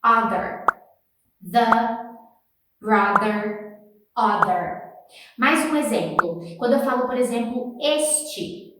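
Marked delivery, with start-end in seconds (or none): 0.0-4.9 "Other" said clearly for students to copy; repeat-after-me drill. Shown as a demonstration. Teacher saying words for class to repeat. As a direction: clear voiced th for copying. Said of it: "Repeat after me".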